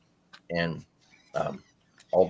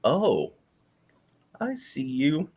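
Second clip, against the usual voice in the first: teasing sing-song; 8 semitones higher, slower than usual. Retold or imitated. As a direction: coax it like spotting a hider. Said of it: "I'm like".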